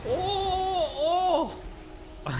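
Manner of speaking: put-on Jar Jar Binks accent. Streamer doing his Jar Jar noise for chat, high and goofy. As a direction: let out a high, silly alien-creature "oh". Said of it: "It's my Jar Jar Binks accent".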